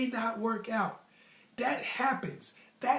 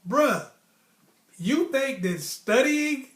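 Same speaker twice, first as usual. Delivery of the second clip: exasperated; 3 semitones higher, 6 dB louder than usual. Retold or imitated. Scolding a classmate who quit studying, exasperated and loud. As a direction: lay into him like he can't be serious. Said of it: "I was like".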